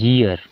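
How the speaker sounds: ईयर drawn out slowly as "yee-ar", with an opening y glide; correct pronunciation. Shown as a demonstration. Teacher giving learners the proper form, ईयर pronounced "yee-ar". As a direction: say ईयर as "yee-ar", starting on a y sound. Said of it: "इसका जो उच्चारण होता है".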